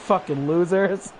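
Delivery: slow words through laughter; laughing jeer. Real, not acted. Streamer jeering at an online group, laughing through it. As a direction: jeer slowly while cracking up.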